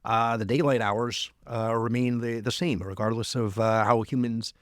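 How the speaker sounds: put-on South Dakota accent; lightly acted South Dakota accent. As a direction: read it with a folksy South Dakota twang. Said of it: "do my South Dakota, uh, uh, accent now".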